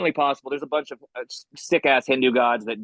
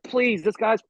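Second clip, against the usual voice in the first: higher-pitched mock exasperation; acted scornful outburst; pissed-off dismissal; 7 semitones higher, slower than usual. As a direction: cut off the believer, fed up. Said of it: "just so pissed".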